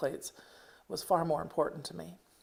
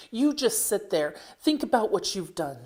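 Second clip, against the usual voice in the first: a mild, tired mock snap, a little higher; spat in exhaustion; 3 semitones higher than usual. Mother ordering her daughter to sit, tired, mildly spat. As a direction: scold them, worn out. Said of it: "she spat in exhaustion".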